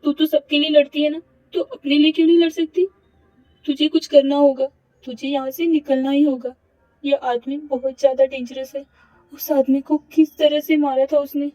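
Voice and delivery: Avni bracing herself. Acted. Avni voiced by narrator.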